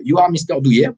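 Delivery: put-on thick French accent in English; hostess's question in his heavy French accent. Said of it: "tu reconnais moi encore mon accent anglais".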